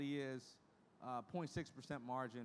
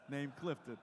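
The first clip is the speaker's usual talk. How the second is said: laughing; slower than usual. Retold or imitated. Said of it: "She said".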